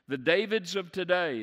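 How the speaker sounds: emphatic repeat. Acted. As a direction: punch The Davids of today on the repeat.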